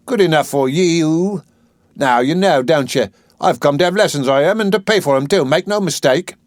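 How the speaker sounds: a hint of defiant flower girl; flower girl retort. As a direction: lay it out plainly to him.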